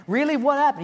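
high, eager wife voice; lightly voiced curious wife; mock wife asking what happened; wife's voice. Wife reacting in acted dialogue.

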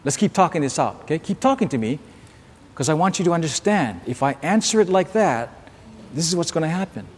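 calm, understated voice of God; voicing God, gently. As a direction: talk it through quietly, like a patient father. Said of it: "Sometimes God says".

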